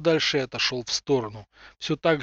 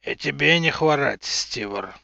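growled through teeth. Acted. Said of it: "нехотя сквозь зубы прорычал Юр".

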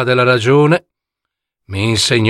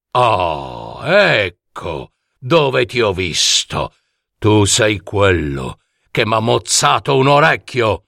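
a hint of a brooding monster; lightly voiced monster. (mostro appena accennato che riconosce il nemico)

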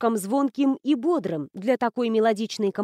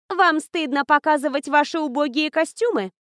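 contemptuous; 5 semitones higher, 3 dB louder than usual. Acted. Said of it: "презрительно осмотрела".

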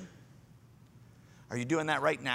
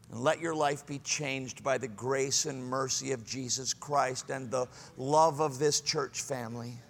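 tender invitation; 4 semitones lower, 4 dB quieter than usual. Acted. Soft invitation after climax.

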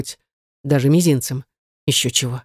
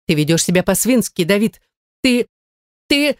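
sputtering wife; 4 semitones higher than usual. A narrator's reading.

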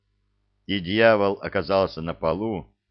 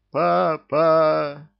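higher, louder drawn-out howl; howling cry; 8 semitones higher, 6 dB louder than usual. A narrator's reading. The syndicate mourning their leader, howling cry. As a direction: howl in collective grief. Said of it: "взвыл тридевятый синдикат".

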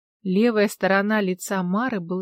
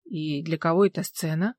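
weary; 4 semitones lower than usual. Acted. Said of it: "устало спросила Алла".

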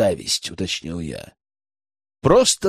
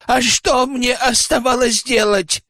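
higher, louder desperate outcry; almost shouting; 11 semitones higher, 4 dB louder than usual. A narrator's reading. Tikhomir defending himself before the elders, near-shouting. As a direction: push it up toward a shout. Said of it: "Тихомир почти кричал".

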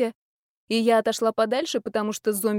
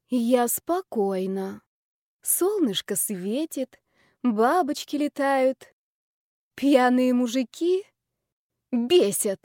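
forced calm; 2 semitones higher, much slower than usual. Acted. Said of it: "рявкнула я последнее слово".

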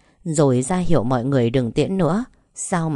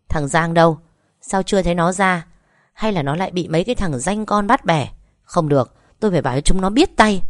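angry demanding; 3 semitones higher, 3 dB louder than usual. Acted. Angry mother demanding son-in-law.

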